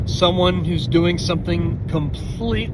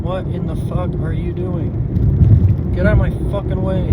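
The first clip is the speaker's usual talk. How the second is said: angry driver yelling at someone blocking the road; road rage; 2 semitones higher than usual. Real, not acted. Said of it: "I'm so angry at other drivers".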